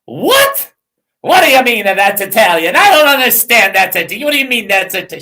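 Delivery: high, loud incredulous what; baffled disbelief. Retold or imitated. Baffled disbelief at being told the name is Italian. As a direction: act stunned at the news. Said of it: "I'm like".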